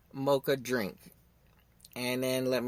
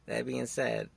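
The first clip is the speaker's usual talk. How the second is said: laughing; 3 semitones lower, slower than usual. Real, not acted. Podcaster catching himself, repeating the phrase through a laugh. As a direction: chuckle as you repeat the phrase.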